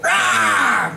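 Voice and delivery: mock playful dragon roar; hammed-up costume roar; pretend roar. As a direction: fake a roar to scare. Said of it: "pretended to roar".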